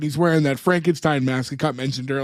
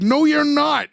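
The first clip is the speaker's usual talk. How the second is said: put-on high childish tantrum outburst; 10 semitones higher, slower than usual. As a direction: throw a little tantrum, pitched up. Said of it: "tantrum style".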